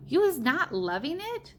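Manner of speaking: high, light, innocent question; the BFG playing innocent to the giant; asked innocently. A narrator's reading. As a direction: feign innocence, all wide eyes. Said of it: "the B F G asked innocently".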